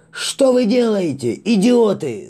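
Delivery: very high, loud angry shout; furious yell. Acted. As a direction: scream at the fools. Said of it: "заорал Вабана".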